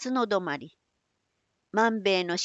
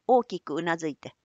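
ordinary delivery, nothing marked

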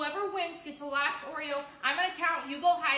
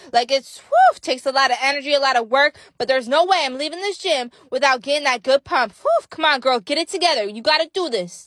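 out of breath; 13 dB louder than usual. Acted. Straining through a hard workout.

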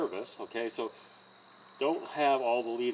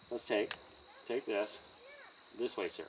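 soft, low, polite request; asking nicely; 4 semitones lower, 13 dB quieter than usual. Shown as a demonstration. Trainer asking a horse to move, nicely and softly. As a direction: ask as gently and politely as you can. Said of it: "asking as nice as we can".

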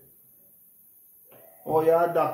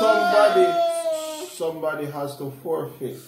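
pained whine. Real, not acted. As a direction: whimper it, begging someone to quit. Pins on face, pained challenge.

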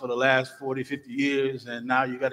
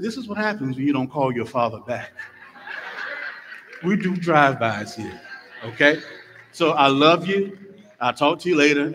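mock stern father; 4 dB louder than usual. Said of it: "I said".

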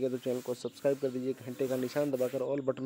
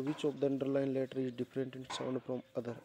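each word read out slowly and clearly; slow dictation; much slower than usual. Shown as a demonstration. Teacher reading the question slowly to the class.

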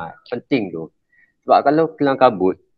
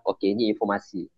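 softer, composed information voice; calm, maintained tone; 6 dB quieter than usual. Shown as a demonstration. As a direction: say it calmly without raising the voice. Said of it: "Cakap kita maintain je".

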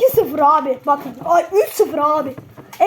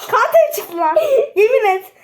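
laughing; 5 semitones higher, 4 dB louder than usual. Real, not acted. Excited card pull, laughing.

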